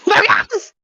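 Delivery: very high echoing shout; a fairy's call ringing through halls. Acted. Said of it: "echoing throughout the entire building".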